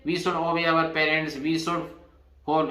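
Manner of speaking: very slow, each word set apart for students; slow dictation. Shown as a demonstration. Teacher repeats the should sentence for students, slow dictation. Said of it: "यहाँ should है".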